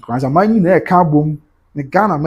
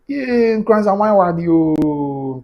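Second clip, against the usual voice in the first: excited praise; 5 semitones higher, much slower than usual. Real, not acted. Admiring the queen mother's photo.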